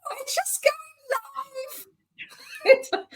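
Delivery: high, very slow mock singsong; hammed-up high drawn-out announcement; mocking a presenter. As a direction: parody a TV host going live. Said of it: "they went".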